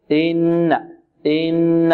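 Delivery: "إن" with short i and eased onset; unstretched hamza. Shown as a demonstration. Teacher models for students an unstretched hamza in "إن". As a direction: keep the opening of "إن" short and easy. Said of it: "لا نمدها أو لا نمد كسرتها".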